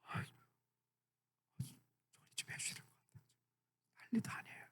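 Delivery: whispered, hushed plea; urgent whisper. Retold or imitated. Disciples pleading with Jesus behind the woman's back, urgent whisper. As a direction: lean in and whisper so she can't hear. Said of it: "그래서 이러는 거야".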